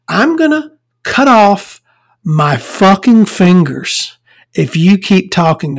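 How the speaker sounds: hammed-up emphatic threat; Brendan Gleeson. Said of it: "he tells Colin Farrell".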